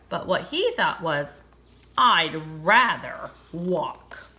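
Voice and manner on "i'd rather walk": slow horse voice. Acted.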